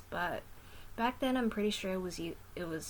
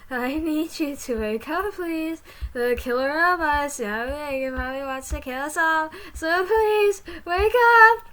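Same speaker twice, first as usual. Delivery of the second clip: rising panicked high shout; 10 semitones higher, 14 dB louder than usual. Acted. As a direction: plead louder and higher to wake her. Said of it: "starting to panic".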